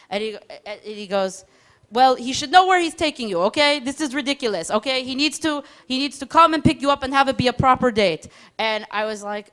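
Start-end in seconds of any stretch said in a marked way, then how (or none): 1.9-8.3 stern mock-mother. Soldier insisting like a mom.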